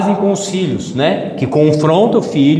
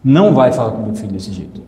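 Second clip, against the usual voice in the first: stern warning. Shown as a demonstration. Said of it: "colocar o dedo na cara do seu tio e falar assim".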